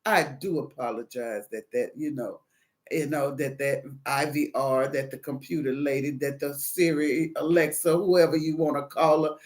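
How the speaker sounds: low, soft customer-service calm; de-escalate with a subdued, even apology; soothing apology. Acted. Agent apologizing to an upset caller for the phone system, low and soothing.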